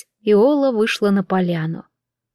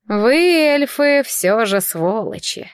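завистливо; much slower than usual. Acted. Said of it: "с завистью сказала Орала".

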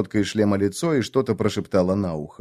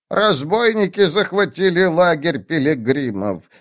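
put-on slow, hesitant old woman; old witch voice; 3 semitones higher, slower than usual. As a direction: weigh each word like a nervous old witch. Witch character explains drink.

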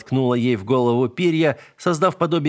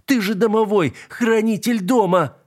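helpless yelling; 10 semitones higher than usual. A narrator's reading. Narrator cat on the wardrobe yelling at the spirit, desperate. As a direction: shout down from the wardrobe in despair. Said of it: "орал я".

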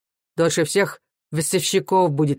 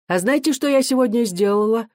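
an eager, raised exclamation; exclaiming; 4 semitones higher than usual. Acted. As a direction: she can't wait to share her news. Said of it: "воскликнула она".

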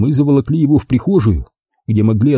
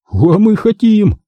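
slow, insistent and higher; 10 semitones higher, 3 dB louder, slower than usual. A narrator's reading. Max insisting to the diver, slow and stubborn. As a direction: press the point, drawing it out. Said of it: "настаивал на своём Макс".

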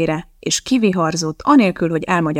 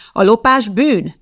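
slow, louder firm declaration that stealing is a sin; mother's slow, louder outburst at the table; exclaiming; 4 semitones higher, 6 dB louder, slower than usual. Acted. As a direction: stamp it down as moral law. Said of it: "kiáltott fel".

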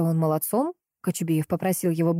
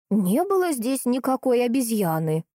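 put-on confident old woman; 6 semitones higher than usual. A narrator's reading. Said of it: "уверенно проговорила старушка".

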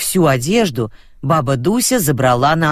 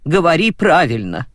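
stern correction; 3 semitones higher than usual. Acted. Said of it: "одёрнула его".

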